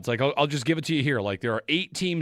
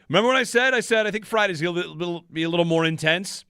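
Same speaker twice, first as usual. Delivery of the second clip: gloating; 4 semitones higher, 3 dB louder, faster than usual. Real, not acted. Gloating about his prediction.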